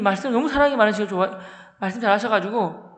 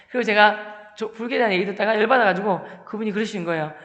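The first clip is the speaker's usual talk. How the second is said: ordinary delivery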